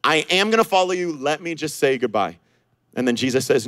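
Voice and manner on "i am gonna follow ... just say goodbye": hesitant. Retold or imitated. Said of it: "has a moment of hesitancy".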